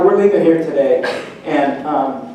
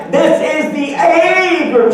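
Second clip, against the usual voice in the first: louder each time; 9 semitones higher, slower than usual. Retold or imitated. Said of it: "She gets louder every time".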